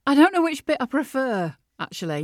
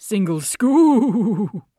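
slow; 7 dB louder, much slower than usual. Shown as a demonstration. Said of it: "retry of the phrase".

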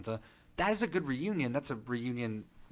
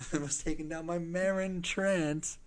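mock gravel; 8 semitones higher, slower than usual. Acting out the Hound.

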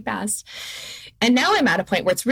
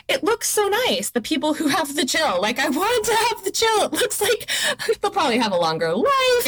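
wistful longing; 10 semitones higher than usual. Real, not acted. Wistful raised voice.

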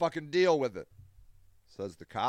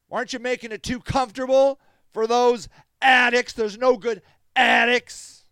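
mocking a critic; 2 semitones higher, 5 dB louder than usual. Recovering alcoholic mocking critics who call him an enabler. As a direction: throw their judgment back with scorn. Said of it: "They'll say".

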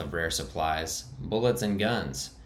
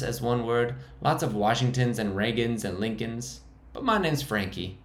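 much higher, squeaking; squeaky high voice; 4 semitones higher than usual. Acted. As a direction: defend the hideout in a high squeak. Frankie's held high voice.

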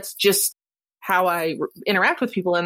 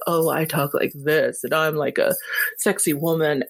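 sexy woman voice; 5 semitones lower than usual. Retold or imitated. How she thinks she sounds, lightly sultry and low. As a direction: lightly play the seductive woman she imagines. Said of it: "I have the same feeling of".

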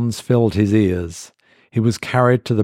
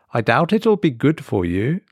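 ominous waitress; 4 semitones higher than usual. Acted. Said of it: "her mouth twisting in a strange smile".

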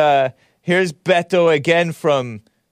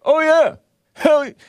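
mock excited; 4 dB louder than usual. Echoing Beto's clip.

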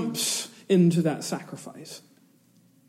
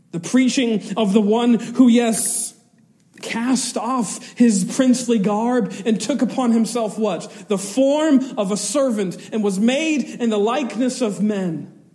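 fervent preaching; 5 semitones higher, 3 dB louder than usual. Real, not acted. Preaching at full force.

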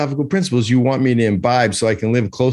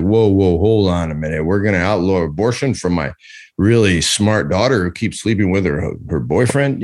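lower, a hint of a flustered father; worried Republican parent; 5 semitones lower than usual. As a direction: lightly voice a dad balking at the law.

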